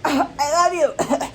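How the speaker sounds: slow, high, choked-out mock confession; coughed-up confession. Someone coughing up their feelings, in a strained mock confession. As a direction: force the words out as if coughing them up. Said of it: "they're trying to cough up the".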